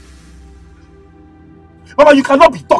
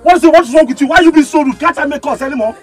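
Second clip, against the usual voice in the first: raised, indignant questioning; angry challenge; 2 semitones higher, faster than usual. Acted. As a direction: round on a rude passenger. Driver snaps at interrupting passengers.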